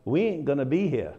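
a hint of Southern dialect, playful; a little Southern. Shown as a demonstration. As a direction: say "we ain't gonna be here" in a touch of Southern accent. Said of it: "if I may speak a little Southern".

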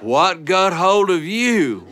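slow, laughing mock surprise; startled father. Father startled by his muddy son, mock surprise. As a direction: act taken aback by the filthy boy. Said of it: "And our daddy went".

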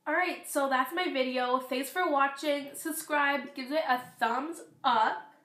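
slightly hoarse, losing voice; rough, strained, voice going. Real, not acted. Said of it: "my voice because it sounds really weird".

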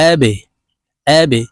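আবে with the B pushed down into a short echo; qalqalah bounce. Shown as a demonstration. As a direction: bounce off the b in আবে with a small push. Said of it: "নিচের দিকে ধাবিত করে ধাক্কা দিয়ে উচ্চারণ করব". (আবে-র বা ধাক্কা দিয়ে উচ্চারণ)

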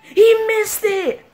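high, slow, loud cry of disbelief; stunned disbelief. Real, not acted. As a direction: drag out the words, can't believe he missed. Disbelief at missed free throws.

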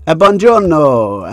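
loud, slow, sung-out hello; hammed-up, drawn-out Italian salutation; playful Italian greeting. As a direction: pretend to greet all of Venice grandly. Imagines greeting people in Venice.

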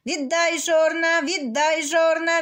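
rooster insisting. Acted. Rooster keeps demanding.

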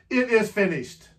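retold shout. Preacher echoing Jesus's cry to the congregation, a mild mock shout. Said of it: "when he shouted".

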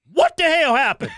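high, loud, laughing disbelief; mock shocked outburst. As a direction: blurt it out as if just waking to bad news. Waking up to lost election.

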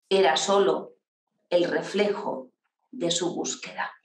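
solemn poem reading with long pauses; poetry recital. Acted. Host reciting her director's poem to the workshop, declaimed. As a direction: declaim it line by line, swelling on the long phrases, dropping at the ends.

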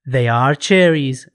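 very slow, clear English; slow model answer. Shown as a demonstration. Teacher models the answer for the class, very slow and clear. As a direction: spell it out word by word.

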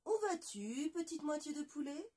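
high curious voice asking the way; a bright little creature calling out; questioning animal voice. Acted. Le loup interroge la moitié de poulet, voix aiguë. Wolf/fox asks the half-chick.

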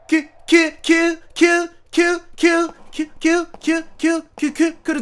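high, stuttered squeaks of dread; nervous anticipation. Real, not acted. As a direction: brace for the scare in tiny high bursts. Bracing for a jump scare.

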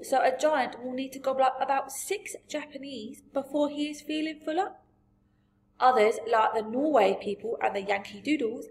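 lively storybook giant, relishing odd words; BFG. A narrator's reading.

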